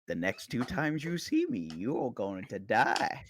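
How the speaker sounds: lightly voiced omen, slowing right down; ominous demon dog. Joking as a demon dog giving a death omen, slow and ominous. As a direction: draw out the doom-laden warning. Voicing a demon dog's warning.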